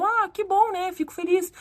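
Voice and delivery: high, playful relief; joking. Retold or imitated. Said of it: "Falei brincando com ela". (brincando, em tom agudo)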